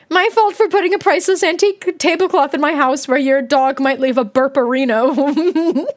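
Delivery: lightly put-on English politeness; polite English accent. Streamer parodying the host over burps, polite English accent. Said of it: "You'd be all".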